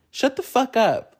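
high-pitched mock outburst at mom; mimicked high, angry snap. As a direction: imitate a daughter going off, pitch jumping up. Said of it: "she starts going crazy on her mom".

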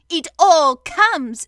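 slow, loud, stern retort. A narrator's reading. Rabbit scolding stuck Pooh, stern. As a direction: lay down each word sternly. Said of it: "said Rabbit sternly".

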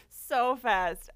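amused echo through laughter; laughing. Real, not acted. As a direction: echo it while cracking up. Echoes the other, laughing.

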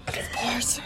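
attempted little cartoon creature voice; half-voiced try at an alien critter's meme line; Stitch. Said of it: "It's like the little Stitch voice".

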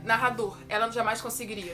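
narrator meme. Retold or imitated. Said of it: "o meme do narrador".

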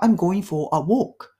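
slow, careful English example; slow model phrase. Shown as a demonstration. Teacher reading the example slowly to learners. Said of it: "model English phrase read slowly".

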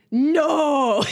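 imitated toddler's long, drawn-out "no"; mock toddler yell; toddler refusal. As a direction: refuse like a defiant little kid. Acted toddler refusing and throwing spoon.

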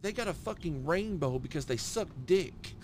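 high-pitched stand-up imitation; Ralphie May. Retelling a comic's routine, high mimicked voice. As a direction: deliver the bit in a high comedian voice. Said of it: "He said".

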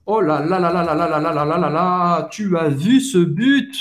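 long rattled string of "là là là", rising at the end; carried away by a great goal, piling up the "là"; very excited. Shown as a demonstration. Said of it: "mais você tá empolgado". (empolgadíssimo, esticando o "là là là")

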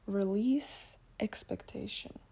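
slow, measured inner-voice message; heard inner voice. Retold or imitated. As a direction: deliver it slowly like a spirit guide speaking. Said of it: "And then I heard".

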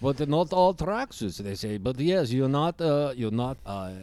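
gruff Eastern European puppet; Bloggy voice. Acted. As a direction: demand a cigarette in broken English. Bloggy voice continues.

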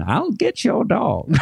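put-on high, slow witchy old lady voice; Missus Deagle impression. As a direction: croak it out like a nasty old neighbour. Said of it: "Missus Deagle".

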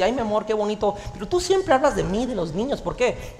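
gentle, affectionate question, lightly voiced; sweetly imitated wife. Wife sweetly asking her preacher husband, lightly voiced. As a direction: play the wife asking kindly. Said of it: "me lo dijo así".

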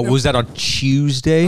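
drawn-out British "Chewsday"; mock British accent. Podcaster heckling the friend explaining England, mock British accent. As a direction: tease slowly in a put-on British accent.

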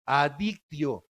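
slow falling emphasis on Adictio; drawn-out word. Shown as a demonstration. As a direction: lean on Adictio slowly. Mock label said slowly. (Adictio lento y con énfasis)

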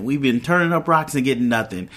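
ordinary delivery

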